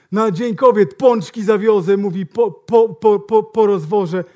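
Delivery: hammed-up salesman; loud bragging salesman. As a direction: drag out the boast. Salesman stammers loudly.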